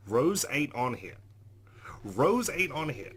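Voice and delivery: slow, loud, emphatic disbelief; alarmed realization. Acted. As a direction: hit ROSE high and loud, drawn out. Character alarmed that Rose is missing.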